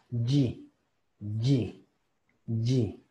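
"Y" sounded "jee", clean i vowel; pure I sound. Shown as a demonstration. Teacher showing how it will sound, "Y" as "jee". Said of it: "Entonces va a sonar".

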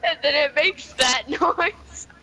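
laughing. Real, not acted. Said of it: "I'm crying".

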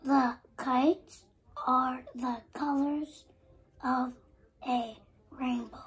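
breathy whisper, word by word; whispered reading. Real, not acted. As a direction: read the page in a whisper. Child reads book pages in whisper.

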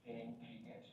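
monotone recitation with little stress; monotonous. Real, not acted. Student reciting a self-introduction to the teacher, monotonous. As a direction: recite it haltingly, without stressing key words. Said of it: "still শুনতে কিন্তু একটু monotonous শোনাচ্ছে".

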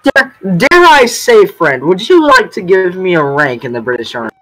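broken English in a put-on French accent; hint of a French accent; mock French accent. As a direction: play a Frenchman asking for rank, lightly accented. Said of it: "he has very heavy French accent".

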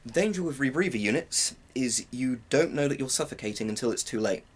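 ordinary talk, nothing marked

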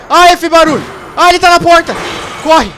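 high, loud frightened yell; panicked shouting. Real, not acted. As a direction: shout it in sudden fear. Monster at the door.

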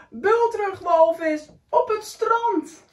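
announced message. Acted. Snail's written message read out.

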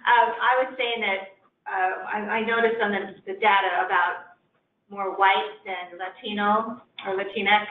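carefully projected, clear speech for the room; projected mother voice. Real, not acted. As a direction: speak up so the phone line hears. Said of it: "project my mother voice".

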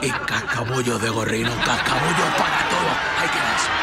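loud laughing demands; laughing shout. Acted. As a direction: yell it, cracking up. Exigencias absurdas, entre risas. (gritando entre risas)

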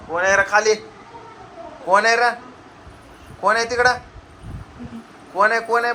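loud call down the stairs, rising in pitch. Real, not acted. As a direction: shout down to find out who's there. Calling out who is downstairs. (मोठ्याने हाक मारत)

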